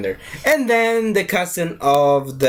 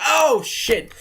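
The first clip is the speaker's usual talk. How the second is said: high yelp; 9 semitones higher than usual. Retold or imitated. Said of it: "He's like".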